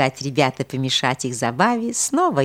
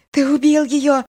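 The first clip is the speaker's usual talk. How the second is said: put-on accusing old holy fool; 10 semitones higher, 4 dB louder than usual. A narrator's reading.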